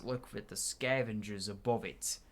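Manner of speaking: slow, looming, secretive drawl; hint at secrets like a shady guide; slow, dark storyteller voice; ominous stranger. Acted. Voicing a mysterious NPC.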